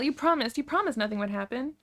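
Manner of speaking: high, loud, desperate reproach; yelling accusation. A narrator's reading. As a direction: cry out at a broken promise. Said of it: "you yell".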